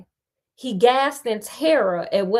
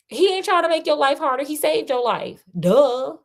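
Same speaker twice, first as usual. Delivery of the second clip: quick, higher sassy comment; sassy aside; 5 semitones higher than usual. Real, not acted. Reader talking back to the listeners about Arthur. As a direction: butt in on the story with attitude.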